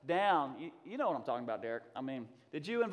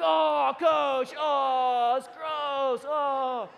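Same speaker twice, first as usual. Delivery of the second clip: high, loud mock groaning of kids; grossed-out girls; 8 semitones higher, 9 dB louder, much slower than usual. Fourth grade girls protesting to their coach, loud mock disgust.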